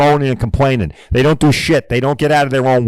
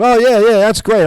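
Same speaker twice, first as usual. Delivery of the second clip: higher, louder mock enthusiasm; mocking eager yes-man; 7 semitones higher, 4 dB louder than usual. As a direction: parody a lazy shop owner gushing agreement. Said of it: "jackasses that opened the door to it and said".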